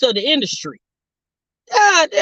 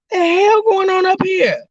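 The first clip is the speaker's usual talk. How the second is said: exasperated outcry; 10 semitones higher, 4 dB louder than usual. Retold or imitated. Exasperated by noisy neighbors.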